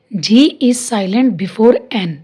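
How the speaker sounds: slow, clear rule dictation; teacher dictating slowly; slow dictated rule. Shown as a demonstration. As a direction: read the rule slowly for notes. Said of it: "इसका rule है".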